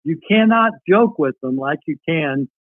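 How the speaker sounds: reading a wartime letter aloud, lifted. Acted. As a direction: read his letter to the audience like a cherished keepsake.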